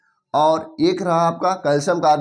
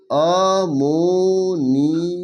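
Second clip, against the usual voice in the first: slow dictation; much slower than usual. Shown as a demonstration. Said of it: "एक लिख भाई".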